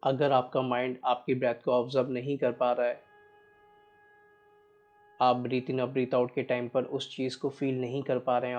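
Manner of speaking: measured, even meditation guide with long pauses; guided meditation. Real, not acted. Guiding listeners to watch each breath, unhurried meditation voice. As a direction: steadily guide listeners through breath awareness.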